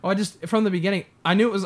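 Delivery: ordinary talk, nothing marked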